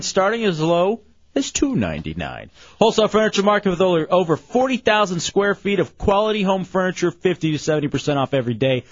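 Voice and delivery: host's live sponsor read; radio ad read. Real, not acted. Radio host reading the furniture market's sponsor spot, ad read. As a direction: read out the ad copy, phone number spaced out.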